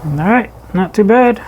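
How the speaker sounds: talking through a dust mask; muffled voice behind a mask. Real, not acted. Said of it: "hopefully you can hear me with the mask on".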